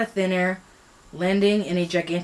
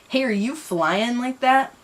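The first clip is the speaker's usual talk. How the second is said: the line read wrong first, higher and slow; misread; 6 semitones higher, slower than usual. Shown as a demonstration. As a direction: stumble over the misread question.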